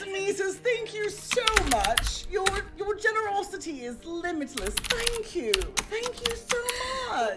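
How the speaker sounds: hammed-up sincerity in a sibling impersonation; Haughty Chicken. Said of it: "playing me".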